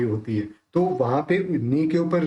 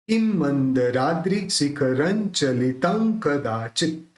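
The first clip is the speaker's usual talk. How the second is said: measured recitation. Shown as a demonstration. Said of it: "पूरा कैसे निकलेगा?".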